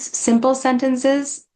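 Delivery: stretched, deliberate words; slowly, as if to someone who struggles to follow; slow and simple. Shown as a demonstration. Teaching caregivers, slow deliberate wording. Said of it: "start slowing down our sentences".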